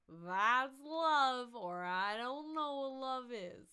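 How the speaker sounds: put-on loud, high, drawn-out drunken wail; swooping boozy declaration; tipsy. A narrator's reading. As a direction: proclaim it like a sloppy drunk. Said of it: "with a voice more tipsy than ever".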